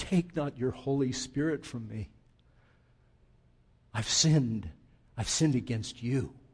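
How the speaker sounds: mock hushed, very quiet, anguished begging. The speaker retells David's plea to God in Psalm 51, acting out anguished pleading. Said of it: "the anguish in his voice".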